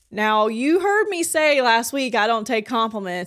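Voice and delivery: playfully protesting the compliment; retold protest. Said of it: "I was like".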